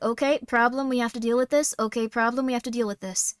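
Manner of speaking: imitating a calm problem-solver; matter-of-fact crisis voice; cool-headed. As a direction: keep a level head, even and steady. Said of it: "father kept a cool head".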